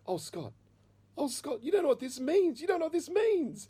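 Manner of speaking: mock tearful cry, very high; shaking, overcome mother. Mother receives the money from son, acted shaking and overcome. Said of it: "she started shaking like this".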